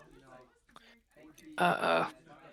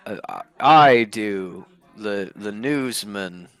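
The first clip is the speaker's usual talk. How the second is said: failed deadpan. Acted. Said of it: "trying for the same, like, comedic deadpan, but not quite succeeding".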